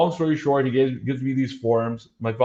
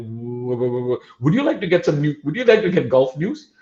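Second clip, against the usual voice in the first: put-on stumbling over the first word, nervous boy; nervous stammer; 4 semitones higher than usual. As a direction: stutter the start, then rush the question up high. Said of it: "I was still stumbling".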